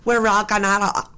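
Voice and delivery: put-on bubbly Valley Girl accent. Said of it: "say it again, 'cause you got it".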